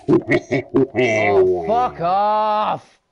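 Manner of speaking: sudden high yell of fright; startled shout. Real, not acted. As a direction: scream it out in shock. Startled by a game enemy.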